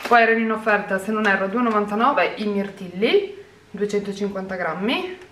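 breathless, rushing through the list; out of breath. Real, not acted. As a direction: talk while catching your breath. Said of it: "Scusate il fiatone". (col fiatone)

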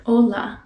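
"Hola" with short, pure vowels; short Spanish vowels. Shown as a demonstration. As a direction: say "Hola" with a silent H, vowels not dragged out. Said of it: "keep the vowels pretty short".

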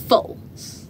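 breathy whispered denial. Acted. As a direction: drop to a whisper for one word. Blunt one-word denial.

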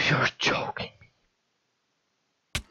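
slow stunned whisper; disbelieving whisper. Real, not acted. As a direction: breathe it out slowly in disbelief. Disbelief after failed jump.

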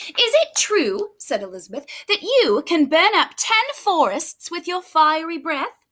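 butter up the dragon, lightly; lightly voiced princess. Elizabeth flatters the dragon.

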